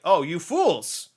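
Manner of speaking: mock a foolish crowd; scornful sword voice. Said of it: "Caliber's like".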